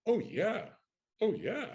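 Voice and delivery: high, repeated assurance; overeager bluff. Retold or imitated. Kid to agent asking about acting, overeager bluff. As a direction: insist on it in a high voice.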